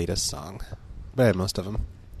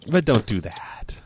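whispered warning; 4 dB louder, slower than usual. Real, not acted. Half-joking warning.

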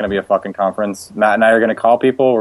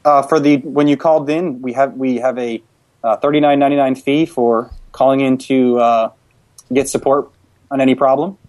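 slightly raised, polite customer-service voice; prank caller voice; 4 semitones higher than usual. Pretend. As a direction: play an HP customer-service rep, raised a touch. Prank call as HP rep.

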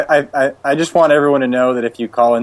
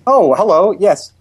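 slightly raised, polite customer-service voice; prank caller voice; 4 semitones higher than usual. Pretend. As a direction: play an HP customer-service rep, raised a touch. Prank call as HP rep.

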